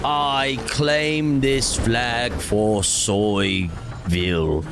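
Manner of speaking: slow, drawn-out mock decree; grand proclamation. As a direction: plant the flag like a pompous conqueror, very slow. Mock conquest of a flag.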